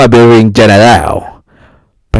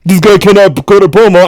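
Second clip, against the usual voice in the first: higher, hammed-up complaining fan; mocking critics; 7 semitones higher, 4 dB louder than usual. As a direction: whine it like a sneering critic. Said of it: "who are just like".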